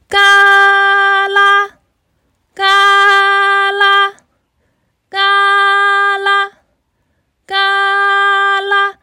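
high, slow creaking sounds; the bridge groaning under the big goat; heavy creaking. Acted. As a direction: stretch each creak as if the bridge strains.

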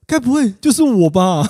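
high, laughing tease; nervous laugh. Real, not acted. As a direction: giggle through an awkward joke. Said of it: "好，好尴尬哦。". (尴尬地笑着说)

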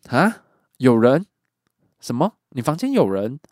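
retold loud astonished cry; loud surprise. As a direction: blurt out in shock. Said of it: "我忍不住惊讶的大声说出来".

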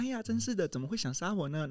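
high, sudden hammed-up sigh of dismay; mock dismay. Snow White grumbling about the soldier, mock dismayed. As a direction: play the fussy princess, overacted. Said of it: "然后我就说".

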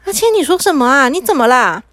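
startled questioning; alarmed puzzlement. Acted. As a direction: ask in baffled concern. Mother baffled by son's gibberish.

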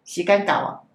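whisk-holding figure scolding in Taiwanese, a touch firm; speaking Taiwanese. Retold or imitated. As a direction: deliver it in Taiwanese Hokkien like a stern elder. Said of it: "他讲台语哦".

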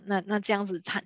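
ordinary delivery

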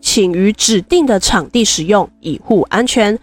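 deliberately stilted notice reading; monotone read. Shown as a demonstration. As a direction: read it like a wooden announcement. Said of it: "我也棒读一下它的牧场入园须知".

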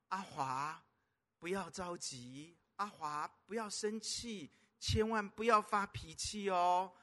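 put-on gently calm the screaming child; calm father. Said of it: "这个爸爸呢却是心平气和啊".

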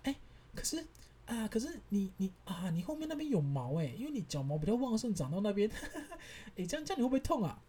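mock the nurse who laughs at you; imitating the nurse. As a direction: nurse stifling a laugh, speeding up at the end. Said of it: "我现在发出的声音跟讲的话都是那个护士讲的哦".

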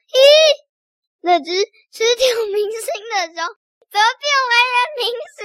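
high, rising astonished question; surprised zookeeper. Acted. Zoo director walking in on the changed bear, high surprised voice. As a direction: puzzle aloud in disbelief. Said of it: "馆长走了进来说".

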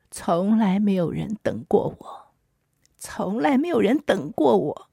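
mild imitated wail, rising on the repeat; understated anguished plea, no real sobbing; retold crying outburst. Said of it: "大哭".

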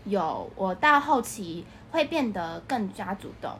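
ordinary talk

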